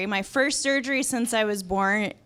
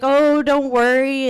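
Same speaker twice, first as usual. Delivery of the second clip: drawn-out, higher soothing tone; mock reassurance; 4 semitones higher, 6 dB louder, slower than usual. Staff to weeping patient, mock reassuring.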